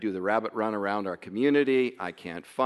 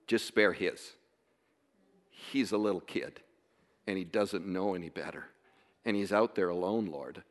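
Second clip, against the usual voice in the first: pleading prayer; 4 semitones lower, 4 dB quieter than usual. Retold or imitated. Father praying for his missing son, softly pleading. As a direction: beg God quietly for his son's life. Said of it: "I'm, like, pleading".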